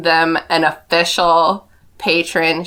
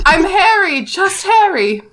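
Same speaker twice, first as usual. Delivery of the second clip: humble Harry; 9 semitones higher than usual. Retold or imitated. Harry introducing himself to class.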